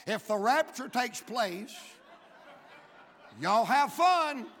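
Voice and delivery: chuckling through the punchline; laughing. Real, not acted. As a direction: laugh your way into the last words.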